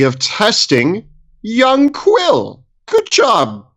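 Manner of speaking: put-on a pompous old mentor lecturing; old wizard voice. Gnome wizard voice held in play.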